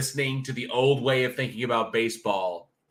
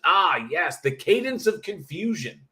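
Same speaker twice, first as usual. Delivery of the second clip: higher-pitched, mock-confused cadence; hammed-up confusion; 7 semitones higher than usual. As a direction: play at sounding puzzled, pitch swooping up. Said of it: "you have to sound confused".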